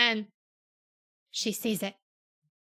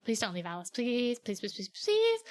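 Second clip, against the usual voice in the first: whiny begging. Retold or imitated. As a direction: beg like a clingy little sister. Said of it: "And Bella's like".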